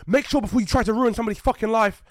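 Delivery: loud angry rant at accuser; reenacted screaming at the accuser; mock furious yell. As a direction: tear into him, heated. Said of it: "I'm sitting there screaming".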